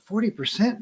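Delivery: mild mock disbelief, rising; incredulous. Shown as a demonstration. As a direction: echo "forty percent" as if it's outrageous. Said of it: "that sounds like a ton".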